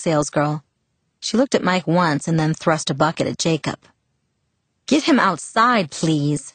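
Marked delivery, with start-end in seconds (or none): 4.9-6.4 begging. Acted. Salesgirl to Jacob about Mike, begging. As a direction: beg them to get him out fast. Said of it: "she begged".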